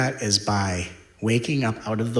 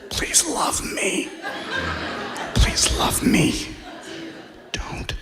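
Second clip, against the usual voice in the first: desperate pleading; 6 semitones higher than usual. Retold or imitated. The needy inner self begging a new person, whispered and desperate. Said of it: "vibrationally it might be".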